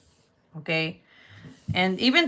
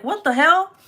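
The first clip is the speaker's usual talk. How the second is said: higher, louder stunned protest; shocked outburst; 9 semitones higher, 7 dB louder than usual. Retold or imitated. Daughter to mom after the slap, higher and louder. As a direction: react to the slap. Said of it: "And I'm like".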